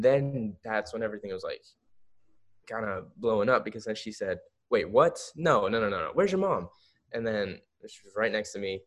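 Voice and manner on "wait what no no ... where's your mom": imitating a startled agent; astonished casting agent. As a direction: react in mock shock, climbing to the question. Acting out agent's shock at his age.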